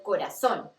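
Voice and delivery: "corazón" with the z as a hissless-of-th, plain s sound; Z pronounced as S. Shown as a demonstration. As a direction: say "corazón" as co-ra-SSON. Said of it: "como si fueran dos S".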